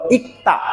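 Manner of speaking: "ইক্তা" with no ল, only the ক sounded; silent ল. Shown as a demonstration. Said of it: "পরেরটা উচ্চারণ হয়েছিল".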